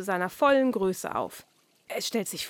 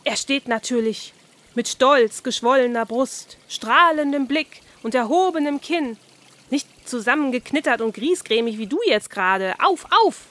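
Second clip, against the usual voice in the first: a mildly voiced carp showing off posture; proud carp; 3 semitones higher, 5 dB louder than usual. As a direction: puff up and lecture like a bossy carp. Carp lecturing Oskar.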